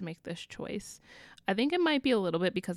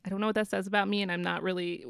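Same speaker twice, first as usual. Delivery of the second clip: normal talking voice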